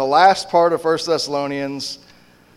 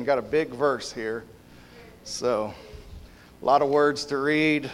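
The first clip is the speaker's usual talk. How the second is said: sarcastic. Real, not acted. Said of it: "Hope y'all can sense the sarcasm".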